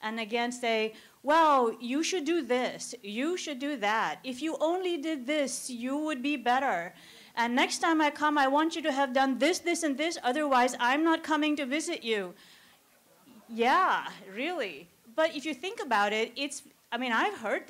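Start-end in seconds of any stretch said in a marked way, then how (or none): 1.2-12.3 a touch of a preachy, louder visitor laying down demands; lightly voiced know-it-all neighbour scolding; bossy visitor. Bossy visitors lecturing the mother.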